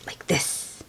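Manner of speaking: soft unvoiced like this; grandma showing how to roll leaves; whispered demo. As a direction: breathe it out gently.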